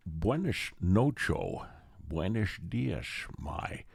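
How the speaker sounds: put-on slow Spanish in a slipping Scottish accent; drawn-out mock Scottish Spanish; Sean Connery. Scottish actor attempting to play a Mexican, thick Scottish accent. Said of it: "That sounded like Johnny Carson".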